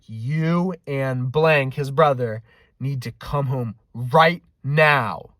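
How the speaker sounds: lightly voiced stern dad; slow, drawn-out order from a pretend dad; hint of a pissed-off father; imitating a dad. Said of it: "as his dad".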